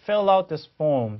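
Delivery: "fill out this form" slow, fil-lout joined; linking demo. Shown as a demonstration. Teacher imitating the British clip, "fill out this form" linked. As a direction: slowly link "fill out" in "fill out this form". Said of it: "연음은 동일해요".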